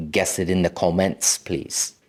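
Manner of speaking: put-on, maybe Nigerian accent with rounded "comments"; unplaced accent, maybe Nigerian. Asking viewers to guess in the comments, maybe Nigerian accent. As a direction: slip into a playful, loosely Nigerian-sounding accent. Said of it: "What accent was that?".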